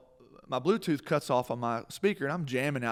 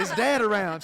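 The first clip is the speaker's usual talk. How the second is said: laughing question; 9 semitones higher, 7 dB louder than usual. Retold or imitated. Asking mom, laughing.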